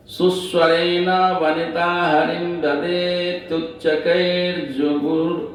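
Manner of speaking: slow, measured chanting of a Sanskrit shloka; verse recitation. Acted. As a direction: intone the verse with devotion. (संस्कृत श्लोक का धीमा सस्वर पाठ)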